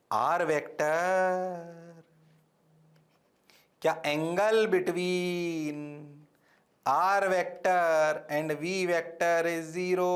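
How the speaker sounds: very slow, each word drawn out; slow incredulous question. Shown as a demonstration. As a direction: drag it out to expose the mistake. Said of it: "teacher slows to question answer". (बहुत धीरे, अविश्वास भरा सवाल)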